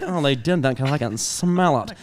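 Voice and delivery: lightly imitated quirky mom; Kristen Wiig-like mom. Comic trying the mom's line for a bit, lightly imitated. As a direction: do the mom, leaning on 'smell'. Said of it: "it was very Chris-, Kristen Wiig".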